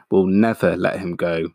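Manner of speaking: firm stress on "never"; declared. A narrator's reading. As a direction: lean on "never" as a vow. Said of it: "Bunce declared".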